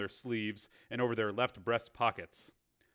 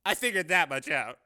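raised, louder wry retort; 6 semitones higher, 5 dB louder than usual. A narrator's reading. Cameraman answers reporter's vague explanation, wry. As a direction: toss it back wryly. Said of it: "he said wryly".

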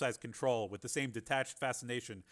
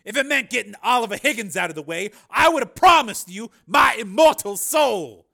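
wry; 11 semitones higher, 17 dB louder than usual. A narrator's reading. Carmen mocking Jennifer's outrage, wry. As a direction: say it with a dry smirk. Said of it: "said Carmen wryly".

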